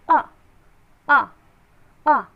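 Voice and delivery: अ, अ, अ की ध्वनि; phonics sounding out. Shown as a demonstration. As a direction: sound out अ, pausing between. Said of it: "phonics teaching to children".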